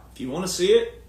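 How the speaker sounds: ordinary delivery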